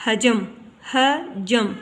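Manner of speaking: हजम as ha-jam, vowel after j; wrong pronunciation. Shown as a demonstration. Teacher shows the misreading, हजम said with a vowel before m. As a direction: misread हजम in two syllables. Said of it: "सही तलफ़ुज़ है इसका".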